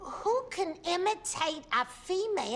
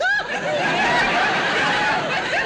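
high, rising giggle that builds; wife giggling at the memory of tickling her husband; 8 dB louder than usual. Real, not acted. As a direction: burst into a high, delighted giggle. Edith recalls tickling Archie.

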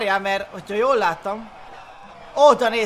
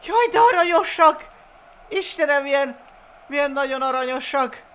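gushing over cuteness; 4 semitones higher than usual. Real, not acted. Gushes over cute Baby Groots.

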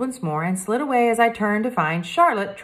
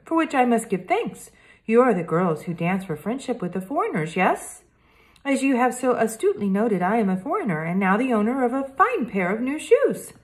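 lightly voiced polite French boy detective; a hint of a careful French accent, earnest; Hector, French boy; 6 semitones higher than usual.

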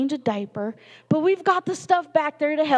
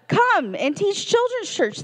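mock recruiting pitch; 7 semitones higher than usual. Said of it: "they said".

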